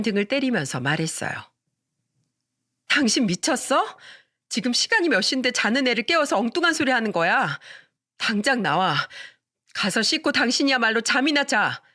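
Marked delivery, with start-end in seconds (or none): 2.9-11.8 angry wife. Acted. Wife hitting husband's back.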